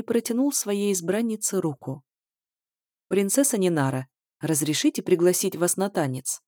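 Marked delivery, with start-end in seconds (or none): 3.1-6.4 lightly velvety courtly invitation; sing-song velvety voice. Acted. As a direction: croon it almost sing-song. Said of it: "Словно нараспев произнёс он своим бархатистым голосом". (слегка напевно, бархатисто)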